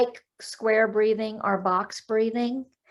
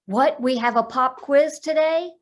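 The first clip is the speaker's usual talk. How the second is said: higher and louder, mock alarm about a pop quiz; panicked brain voice; 5 semitones higher, 3 dB louder than usual. Telling the host how the brain panics over a pop quiz, mock alarm. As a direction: sound like your brain is panicking over nothing. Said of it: "Sometimes our brain says".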